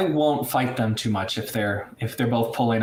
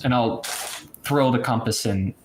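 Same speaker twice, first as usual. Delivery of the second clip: usual speaking voice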